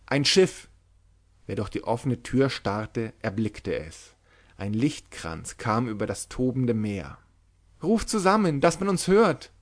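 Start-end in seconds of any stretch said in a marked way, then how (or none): 0.1-0.7 calling out. A narrator's reading. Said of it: "Plötzlich rief jemand". 7.8-9.5 high, desperate pleading cry; desperate wailing. A narrator's reading. A desperate voice begs all to shout, wailing. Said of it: "jammerte eine verzweiflungsvolle Stimme".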